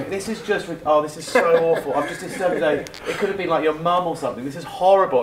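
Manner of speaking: mock-horrified apology to an annoyed prospect; gushing over-the-top apology. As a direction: grovel theatrically, piling it on. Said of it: "really wax lyrical".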